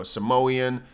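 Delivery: Samoan said "suh-MOH-ee-un"; Samoan with extra syllable. Shown as a demonstration. Streamer lumping the names together, Samoan as "suh-MOH-yun". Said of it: "it's all the same to me".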